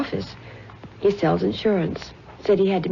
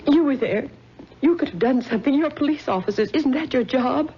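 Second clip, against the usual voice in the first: bitter reproach; 5 semitones higher than usual. Acted. Grieving mother blames the police.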